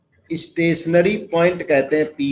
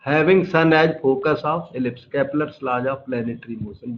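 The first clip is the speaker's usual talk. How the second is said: slow, deliberate dictation; 6 semitones lower, 5 dB quieter, much slower than usual. Shown as a demonstration. Teacher dictating Kepler's law to the class, slow and deliberate. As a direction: give each word time to be written down. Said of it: "dictating a definition slowly".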